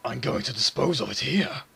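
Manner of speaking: a hint of a menacing demon. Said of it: "I might go with my demon voice again".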